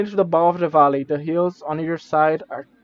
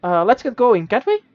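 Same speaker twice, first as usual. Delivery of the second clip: high impatient sprite, rising at the end; tiny creature; 5 semitones higher than usual. Acted. Minimite urges the traveler to get going, high and pushy. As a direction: nudge them to hurry.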